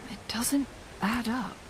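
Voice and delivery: whispered realization while thinking aloud; doubtful whisper. Acted. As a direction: mutter the doubt under the breath. Puzzling over the chronosorter.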